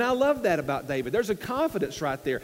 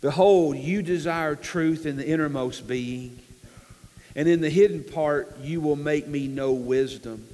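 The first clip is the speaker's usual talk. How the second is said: measured, lower scripture reading; surrendered prayer; 4 semitones lower than usual. Acted. David surrendering his will to God, measured and yielded. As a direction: read it as a slow, yielded prayer. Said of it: "that's the voice of a man who has surrendered".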